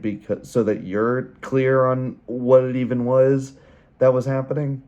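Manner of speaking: hoarse, strained voice from flu; losing voice. Real, not acted. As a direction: voice giving out, hoarse. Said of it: "I'm losing my voice here".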